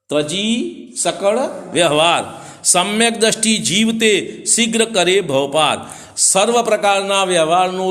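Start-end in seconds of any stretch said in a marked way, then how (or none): 0.1-5.8 slow, drawn-out scriptural recitation; verse recitation. Shown as a demonstration. Preacher recites the next verse to listeners, slow and drawn out. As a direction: recite the verse measuredly, stretching the words.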